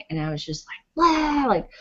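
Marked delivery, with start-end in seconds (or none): 0.9-1.5 mock cussing. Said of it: "cussing at him".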